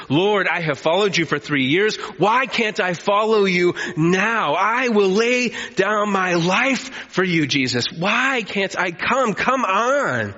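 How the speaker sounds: insistent pleading Peter. Acted. Peter pushing Jesus to follow.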